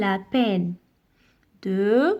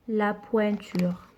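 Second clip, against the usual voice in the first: slow clear model word; 3 semitones lower, 3 dB quieter than usual. Shown as a demonstration. Teacher to young pupils, modelling the word slowly and clearly. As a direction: say "La pointure" slowly and softly, each sound clear.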